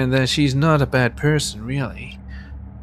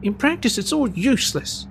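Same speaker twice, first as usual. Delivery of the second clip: flustered Emily; 5 semitones higher than usual. Acted. Emily voiced, upset and pleading.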